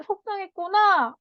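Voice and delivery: put-on name the child's hurt gently; comforting mother. Shown as a demonstration. Mother naming her child's sadness, tender. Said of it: "엄마가".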